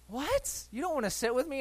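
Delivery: mock wounded wife; offended wife.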